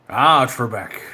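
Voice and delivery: mock Scottish taunt; Sean Connery. Contestant taunting a game-show host, Scottish actor impersonation. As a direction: needle him in a Scottish star's voice. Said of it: "talk like Sean Connery".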